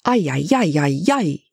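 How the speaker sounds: swooping ay-ay-ay lament; dismayed, sing-song exclamation; exasperated wail. A narrator's reading. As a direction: wail it in rising and falling swoops. Exasperated exclamation after his tantrum.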